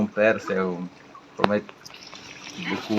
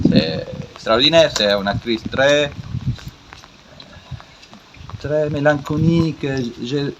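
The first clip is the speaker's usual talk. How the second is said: foreign accent in French. Real, not acted. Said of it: "mon français c'est très drôle".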